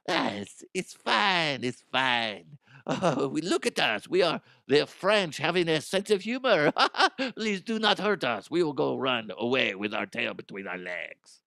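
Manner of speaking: a hint of a cowering, laughing plea; mock timid French. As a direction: beg meekly through a laugh. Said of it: "mock French backing down".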